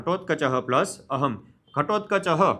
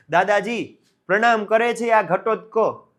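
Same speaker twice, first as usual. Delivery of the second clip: respectful greeting; 4 semitones higher, 4 dB louder, slower than usual. Acted. Ghatotkacha greets grandfather, voiced.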